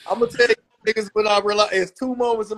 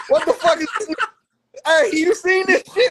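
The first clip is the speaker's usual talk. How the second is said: high choked-up rant to dad; mock choked-up call; 8 semitones higher than usual. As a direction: whine it high like a grown man tearing up. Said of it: "I was like".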